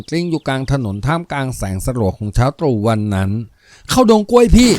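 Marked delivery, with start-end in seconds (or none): 3.9-4.7 loud, much higher urgent call; urgent cry. A narrator's reading. Wife shouts to her husband to run into the banana grove, urgent and loud. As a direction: yell the escape route in a hurry. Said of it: "ร่อนร้อง".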